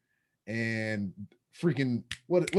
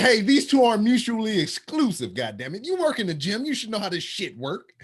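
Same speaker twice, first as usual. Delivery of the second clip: higher, laughing indignant retort; mock indignant; 7 semitones higher than usual. Answering a coworker's teasing, a laughing indignant retort. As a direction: defend himself with playful outrage. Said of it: "I'm insulted".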